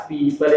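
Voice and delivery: पीपल with the ī held a little; long first vowel. Shown as a demonstration. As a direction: linger slightly on "pee" in पीपल. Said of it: "बड़ी की मात्रा में थोड़ा सा ठहराव है".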